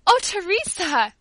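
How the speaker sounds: high, drawn-out exclamation of gratitude; grateful outburst. A narrator's reading. Paula thanks the old servant for the Bible, gratefully. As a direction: cry it out slowly, overflowing with thanks. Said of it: "cried Paula in a burst of gratitude".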